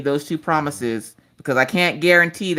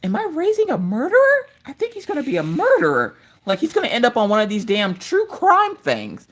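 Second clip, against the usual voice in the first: mock panic; 7 semitones higher than usual. Mom's fearful inner thought.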